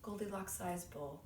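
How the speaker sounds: animated storyteller with stretched key words; story narration. Acted. Performer telling Goldilocks for an audition, animated storytelling. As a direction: tell it like a lively fairy tale.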